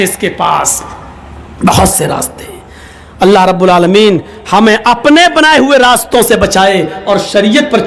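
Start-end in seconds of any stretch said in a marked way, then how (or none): 1.7-2.6 whispered echo. Real, not acted. Preacher repeats his point to the crowd, whispered. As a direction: whisper "بہت سے راستے" softly after the full line. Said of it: "بہت سے راستے ہوتے ہیں".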